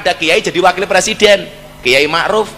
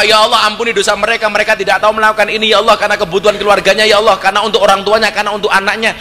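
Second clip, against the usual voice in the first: retold prayer; faster than usual. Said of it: "Saya berdoa".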